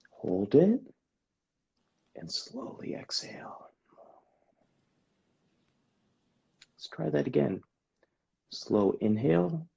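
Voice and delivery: calm them down gently, almost whispering; therapist voice. Shown as a demonstration. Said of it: "I'll go into my therapist voice".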